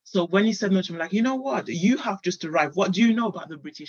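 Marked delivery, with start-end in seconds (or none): 1.1-3.9 higher, quick haughty put-down; snobbish retort. Retold or imitated. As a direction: look down your nose at him. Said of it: "That's going to sound very snobbish".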